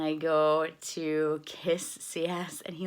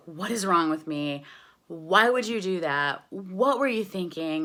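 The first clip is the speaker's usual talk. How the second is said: louder, yelling at herself; mock self-scolding yell; 5 dB louder than usual. Alone in her car after the audition, yelling at herself. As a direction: scold yourself out loud in the car. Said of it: "I'm just yelling at myself in the car".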